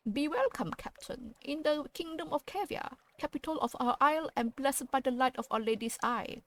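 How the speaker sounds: a lightly voiced solemn welcome; solemn seneschal. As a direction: greet the captain with grave ceremony. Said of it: "the seneschal spoke solemnly".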